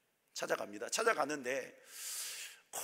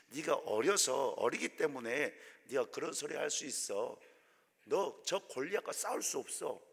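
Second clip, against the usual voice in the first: patronizing king. Retold or imitated. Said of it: "사울이 다윗을 불러서 이렇게 말합니다".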